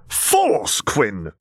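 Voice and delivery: high-pitched exasperated yell. A narrator's reading. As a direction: yell into the comm at a friend. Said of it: "he yelled into the comm".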